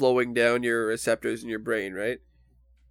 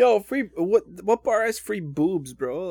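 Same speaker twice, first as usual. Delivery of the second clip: excited disbelief; 8 semitones higher, 4 dB louder, slower than usual. Real, not acted. Excited reply to the boobs joke.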